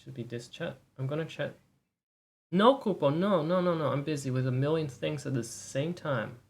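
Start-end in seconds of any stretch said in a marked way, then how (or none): 2.5-3.9 sharp, loud, high scolding. Real, not acted. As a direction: snap a loud no at the pet. Scolding Kupo mid-stream.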